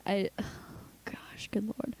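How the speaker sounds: hushed, sighing, getting choked up a little; emotional. Real, not acted. Friend reminded of a movie that made her weep, emotional. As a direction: sigh it out softly, overcome. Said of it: "I'm very emotional now".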